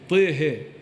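Tihi with the vowels bent toward i; Tihi, imala reading of Taha; tilted vowels. Retold or imitated. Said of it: "It sounds very different".

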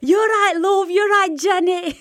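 put-on chatting to a co-worker in a broad Lancashire accent; broad Blackburn accent. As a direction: say it like a Blackburn local to Janet. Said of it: "I was like".

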